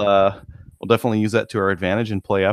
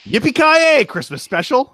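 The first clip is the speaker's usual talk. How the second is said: announcer voice; 4 dB louder than usual. Pretend. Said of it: "Was that the word?".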